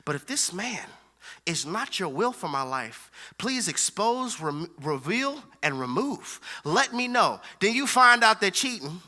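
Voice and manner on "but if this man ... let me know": hushed, earnest mock prayer; softly imitating a praying woman. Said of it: "that woman who's saying".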